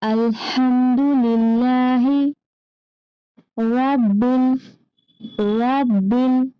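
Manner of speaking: slow, drawn-out Quran recitation. Shown as a demonstration. Teacher recites slowly for children to repeat. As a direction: chant each word slowly for the children to repeat. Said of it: "पढ़िए बच्चों".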